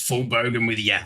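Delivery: broad Aussie bogan accent; full bogan Aussie mate-talk; cranked-up bogan Australian. Shown as a demonstration. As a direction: lay the Australian bogan on thick. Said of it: "so I've gotta crank it up".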